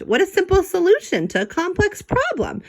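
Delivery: lightly voiced detective rat; impressed rat detective. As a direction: marvel at the simple solution. Hercule impressed, high voice.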